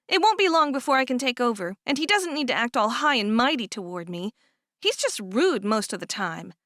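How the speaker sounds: lightly voiced young woman, complaining; voiced younger sister. Cherish complains to Florence.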